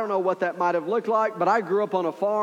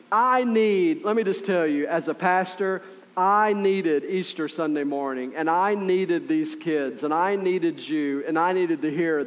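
ordinary delivery

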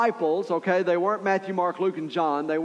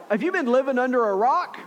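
mocking; 6 semitones higher than usual. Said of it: "they kinda make fun of him".

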